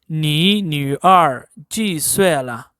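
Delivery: slow model sentence with squeezed-lip ü in 女; careful correct pronunciation. Shown as a demonstration. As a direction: squeeze the mouth on 女 and take it slowly. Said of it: "squeezing your mouth, then you can correctly pronounce". (女 پر ہونٹ سکیڑ کر آہستہ، درست تلفظ)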